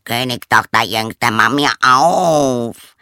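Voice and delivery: loud, slow frog call, rising on Königstochter; drawn-out plea at the door. Acted. Frog calling a second time at the door, slow and loud. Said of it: "eine Stimme rief".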